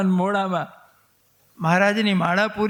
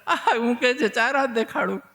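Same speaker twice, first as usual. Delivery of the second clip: higher pitched, amused repeat of a question; mock chuckling echo; 4 semitones higher than usual. Old sage reacts to child's four-arm offer, chuckling echo. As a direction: echo it with a laugh, falling at the end. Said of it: "ગરગાચાર્યજી ખગડ્યા".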